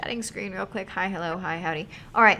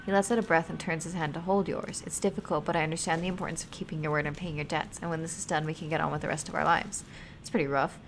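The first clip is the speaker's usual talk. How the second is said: steady storyteller reading; story narration. A narrator's reading. Streamer reading a sad story to chat, calm narration. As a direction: read the tale to the stream. Reads game story aloud.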